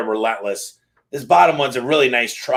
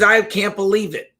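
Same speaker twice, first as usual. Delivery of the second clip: surprised; 8 semitones higher than usual. Acted. Wife sees clean laundry.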